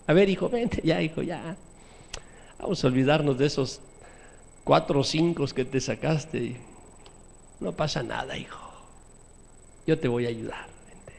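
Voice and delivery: put-on gently forgive the boy; a touch of tender father. Preacher acting a father forgiving his son, soft and tender.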